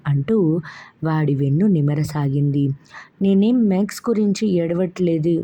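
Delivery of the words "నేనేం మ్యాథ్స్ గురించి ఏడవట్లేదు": indignant half-shout. Acted. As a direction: snap back at grandma in frustration. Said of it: "ఉక్రోషంగా అరిచినట్లన్నాడు". (ఉక్రోషంగా అరిచినట్లు)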